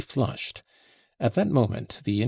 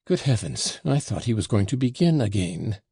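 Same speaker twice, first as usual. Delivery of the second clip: ordinary delivery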